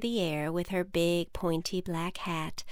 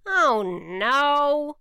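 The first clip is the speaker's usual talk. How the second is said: higher, louder witch gasp of dismay; 7 semitones higher, 7 dB louder than usual. Acted. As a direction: cry it out as the wand is missing. Witch finds wand gone.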